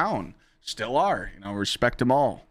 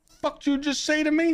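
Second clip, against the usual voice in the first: how dare you, pitched way up; angry retort. Retold or imitated. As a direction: bark it back at the troll. Retold comeback to troll.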